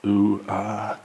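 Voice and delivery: canned crowd awe; sitcom audience ooh-ah. Acted. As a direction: coo like a sitcom studio audience. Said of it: "They got the laugh track added".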